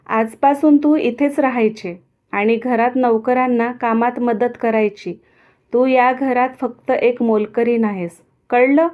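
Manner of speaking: stern orders rising to a loud demand; angry. Acted. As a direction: lay down the law, bark the last word. Radha punishing Abolī harshly.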